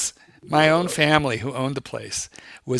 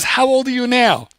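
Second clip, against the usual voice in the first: higher-pitched imitated questioner; retold factory man; 10 semitones higher than usual. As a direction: put the question in the factory man's raised voice. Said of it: "He goes".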